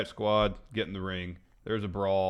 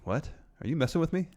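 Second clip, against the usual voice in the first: higher-pitched questioning, lightly hammed up; mock incredulity; 7 semitones higher, faster than usual. Host playing a wrestler baffled by his rival's taunt, mock incredulity. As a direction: ask it high, in mock disbelief. Acts out AJ's reply to Nakamura.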